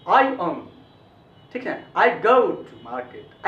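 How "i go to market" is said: I go to market said very slowly and clearly; slow model sentence; slow demo. Shown as a demonstration. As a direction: spell out I go to market word by word. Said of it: "ऐसे बोलना चाहिए".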